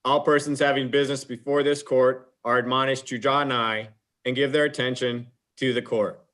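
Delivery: formal proclamation, hear ye; court crier call. Acted. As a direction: ceremonial announcer voice.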